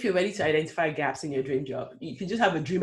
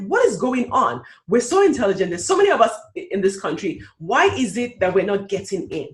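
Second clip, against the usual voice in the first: raised, louder indignant cry of disbelief; exasperated outburst; 3 semitones higher, 5 dB louder than usual. Retold or imitated. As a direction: voice rising in outrage at the unfairness. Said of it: "I'm like".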